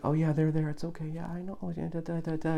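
put-on soothing baby talk. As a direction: coo like comforting a crying baby. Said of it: "it's soothing".

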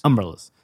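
"Umbrellas" with the stress punched on UM; Baltimore umbrellas. Retold or imitated. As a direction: hit the "um" in "Umbrellas" hard. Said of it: "A lot of emphasis on the um".

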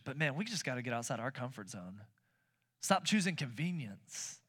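ordinary delivery

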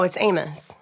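"Amos" with an unstressed uh in the second syllable; corrected pronunciation of Amos. Shown as a demonstration. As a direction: say "Amos" as AY-muss. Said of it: "That's how you say Amos".

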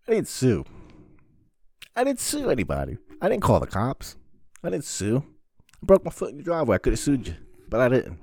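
high, loud indignant ranting. Real, not acted. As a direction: insist loudly you were a good friend. Ranting about not suing his friend.

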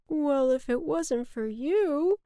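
high, slow storybook cloud; cloud character. A narrator's reading. Cloud returns the boy's thanks, slow character voice. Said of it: "said the cloud to the boy".

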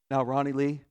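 thick Southern accent, imitating a mother; Southern mom accent. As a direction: imitate a Southern mom addressing her child. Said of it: "has a very thick Southern accent".

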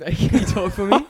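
high, put-on English accent, laughing through it; a cheeky London voice asking for a chat; Pommy accent. Friend asked to do a Pommy accent, put-on English voice. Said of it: "Go, do a Pommy".

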